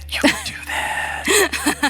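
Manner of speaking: whispered.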